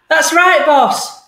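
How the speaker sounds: a tough terrier answering his boss; snarling dog. Acted. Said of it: "snarled the dog".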